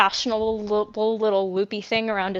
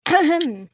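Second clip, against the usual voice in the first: throat clear; 6 semitones higher, 3 dB louder than usual. Acted. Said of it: "clear his throat".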